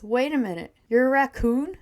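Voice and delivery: taken aback. Acted. Boy finds a talking raccoon.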